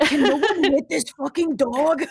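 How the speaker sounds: high, laughing exclamation; laughing disbelief. Real, not acted. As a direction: ask it through real laughter. Laughing at repeated misses.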